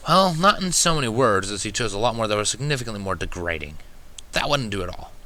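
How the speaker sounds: a hint of a prim young mare; Twilight's voice.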